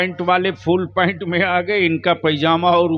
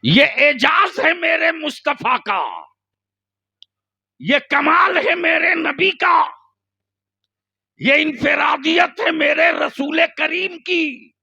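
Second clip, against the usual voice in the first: preaching at full force; 10 semitones higher than usual. Acted. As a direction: shout the praise from the pulpit.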